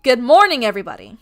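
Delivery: loud, carrying announcement to a crowd; projecting theme park voice. Retold or imitated. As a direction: project to the back of the line like a park worker. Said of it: "I project in my loud voice".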